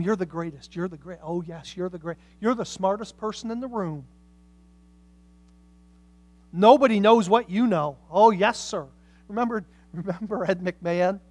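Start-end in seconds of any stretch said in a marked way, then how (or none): 0.0-8.9 mock flatterer. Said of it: "yes people that constantly tell them".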